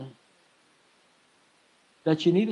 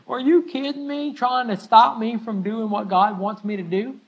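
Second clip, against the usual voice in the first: a hammed-up are you kidding me; incredulous Paul; 3 semitones higher than usual. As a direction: play Paul scoffing at the warning, half laughing. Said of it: "He said".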